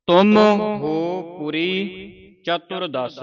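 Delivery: ਚਤੁਰਦਸ in one piece after a slow lead; joined final word. Shown as a demonstration. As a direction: draw out ਤੁਮ ਹੋ ਪੁਰੀ, then ਚਤੁਰਦਸ unbroken. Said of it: "ਇਕੱਠਾ ਹੀ ਉਚਾਰਨ ਕਰਨਾ ਹੈ".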